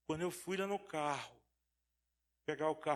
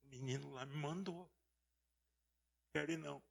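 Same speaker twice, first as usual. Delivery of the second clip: tearful prayer. Retold or imitated. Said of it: "E ele chorando".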